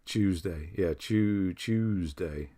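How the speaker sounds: Tuesday with a "ch" start, like Chews-day; British pronunciation. Shown as a demonstration. Showing viewers how we say it, Tuesday as Chews-day. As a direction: open Tuesday on a "chew" sound. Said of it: "the way we say things".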